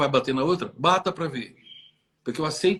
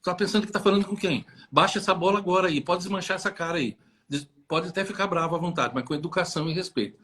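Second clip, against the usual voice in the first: stern, raised voice to a daughter; firm scolding; 2 semitones higher than usual. Shown as a demonstration. Father scolding daughter Lara for disrespect, stern and raised. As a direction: put her in her place, firmly. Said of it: "Eu falo desse jeito".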